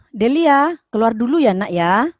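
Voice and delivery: gentle request, voice easing down at the end; not angry. Shown as a demonstration. Teacher contrasting a kind request with anger, gently. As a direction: ask Delia kindly to step out. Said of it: "intonasi yang tidak marah".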